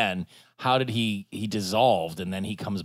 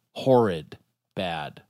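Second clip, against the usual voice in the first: "Horrid" spat out louder; emphatic disgust; 4 semitones lower, 5 dB louder, much slower than usual. Shown as a demonstration. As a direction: punch the word Horrid. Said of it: "That would be horrid".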